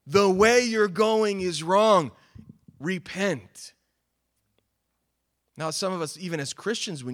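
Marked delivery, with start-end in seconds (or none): 0.1-3.7 stern warning. Pretend. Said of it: "hear John's voice telling you".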